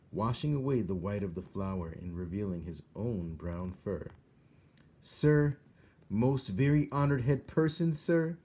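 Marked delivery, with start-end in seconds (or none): 5.0-8.4 loud, high insistent mouse voice; a mouse pressing through the king's tears; urgent mouse. A narrator's reading. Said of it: "said Despero".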